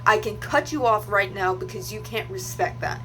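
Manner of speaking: firm, emphatic re-enacted rebuke; retold telling-off. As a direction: lay down a boundary with mild heat. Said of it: "that's what I told him when I was also cussing him out".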